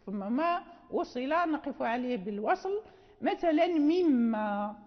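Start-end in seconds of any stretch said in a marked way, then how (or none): 3.7-4.8 مما read slowly as one joined word, stopping at its end; مما kept whole at the stop; pausing on joined word. Shown as a demonstration. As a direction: hold مما together and pause after it. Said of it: "إذا وقفنا نقف مما".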